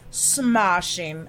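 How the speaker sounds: smashing with a broad British ah, a failed British try; failed British accent. Shown as a demonstration. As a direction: attempt a British Austin Powers smashing. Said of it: "I can't do an accent".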